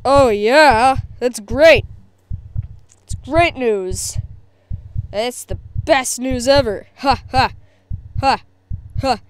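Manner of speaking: mock delight, loud then slowing; imagined parents' reaction. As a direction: imitate parents taking news with a forced ha-ha. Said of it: "they'll most likely be like".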